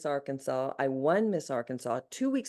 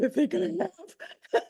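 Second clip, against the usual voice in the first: laughing; 3 dB louder, much slower than usual. Real, not acted. Shocked after seeing a spirit.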